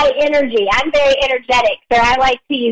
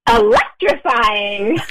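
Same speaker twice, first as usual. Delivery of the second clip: dramatic emphasis; 2 semitones lower, much slower than usual. Acted. Favorite word said with flair.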